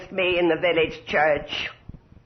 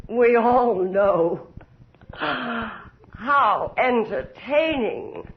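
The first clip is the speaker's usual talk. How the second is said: menacing sneer; much slower than usual. Acted. Countess sneering at the witch.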